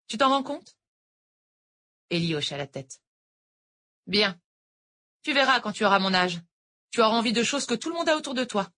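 lightly voiced older teacher; a hint of a sweet Irish tutor; sweet-talking teacher, lightly voiced; teacher Noël. A narrator's reading. Noël bitter monologue.

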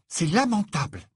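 high-pitched indignant verdict; furious. Acted. Hermione condemns Ron's behaviour, furious. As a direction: pronounce it in mounting anger. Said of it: "déclara Hermione d'un ton furieux".

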